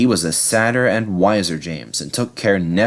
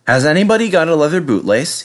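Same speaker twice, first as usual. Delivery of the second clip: guard voice; 7 semitones higher, 4 dB louder, faster than usual. Acted. Guard questions passengers.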